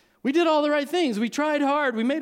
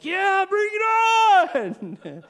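much higher, slow and louder, a wild yell; defiant shout; 12 semitones higher, 6 dB louder, much slower than usual. Retold or imitated. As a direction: roar it into the storm, hammed up. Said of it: "they're shouting".

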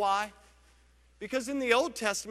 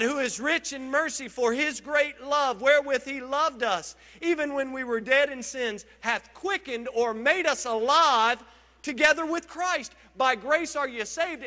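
raised, deliberate Bible reading; scripture reading; 3 semitones higher than usual. Acted. Pastor reads Ephesians to his church, lifted. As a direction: read it out like holy text.

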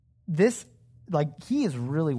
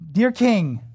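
mock courtesy; 5 semitones higher, 7 dB louder than usual. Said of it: "like, full honor".

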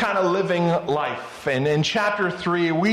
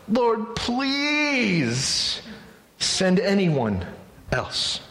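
whiny plea; much slower than usual. Acted. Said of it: "Moses pleaded".

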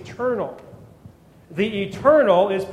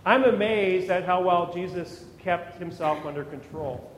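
ordinary delivery

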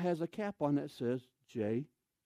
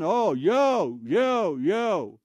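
mock delighted; 7 dB louder, much slower than usual. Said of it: "and I look around".

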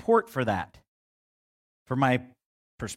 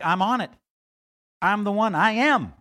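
higher, louder, building to I am; booming God; 7 semitones higher, 7 dB louder than usual. Acted. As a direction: proclaim it like God rising in power. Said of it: "look at how often God's like".

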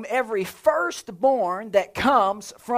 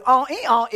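donkey bray; 3 semitones higher than usual. Retold or imitated. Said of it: "how's a donkey sound?".

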